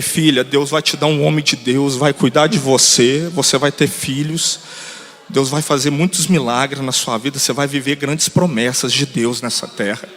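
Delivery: low, slow, measured promise; fatherly reassurance. Retold or imitated. Pastor promising a crying girl God's blessing, reassuring. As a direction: bless her steadily, word by word.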